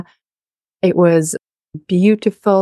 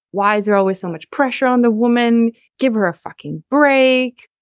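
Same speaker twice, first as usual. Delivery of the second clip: mocking other women; 4 semitones higher than usual. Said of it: "women, react with a sense of like".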